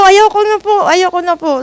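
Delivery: high, loud pleading no; pleading refusal. Retold or imitated. Retold plea refusing employer. (nagmamakaawang pagtanggi, malakas)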